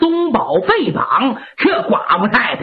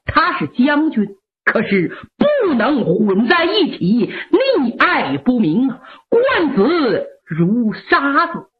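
firm son; 2 semitones lower than usual. Acted. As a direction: hold the line, respectful but unbending. Son refuses mother firmly.

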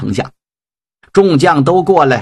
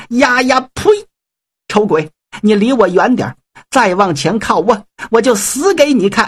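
indignant, threatening bride; 5 semitones higher than usual. Acted. Bride spits at groom, threatens death.

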